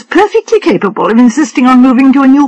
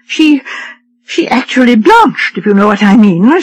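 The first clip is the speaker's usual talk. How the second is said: higher, fussy society wife; a lightly raised voice for a complaining wife; fretful wife; 4 semitones higher than usual. Acted. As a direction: read her as a petulant invalid wife, pitched up.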